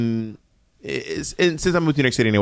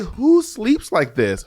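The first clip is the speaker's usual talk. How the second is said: slow exasperated; 4 semitones higher, much slower than usual. Retold or imitated. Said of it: "I was like".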